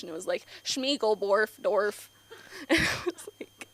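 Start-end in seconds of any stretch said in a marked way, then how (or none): 0.6-2.1 "Schmiegelborf, dorf" as made-up game gibberish; imitated Simlish. Pop singer singing for The Sims, mock Simlish "Schmiegelborf, dorf". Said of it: "fully just in Simlish".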